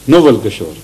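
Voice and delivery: "Nawal" with a rounded first vowel, no-val; corrected pronunciation. Shown as a demonstration. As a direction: say "Nawal" as NO-wal. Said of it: "how do you pronounce it?".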